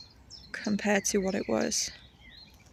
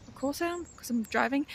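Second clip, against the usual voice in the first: indignant retort; 5 semitones higher than usual. Retold or imitated. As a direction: snap back at yourself, pitched up. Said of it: "And I was like".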